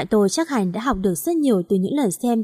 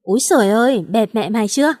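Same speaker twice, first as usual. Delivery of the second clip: louder, delighted jeer at the fallen rival; gleeful jeering shout; 3 dB louder than usual. Acted. Quân gloating at the rival who fell, loud gleeful jeer. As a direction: crow over the fallen rival with loud glee. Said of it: "khoái chí la lên".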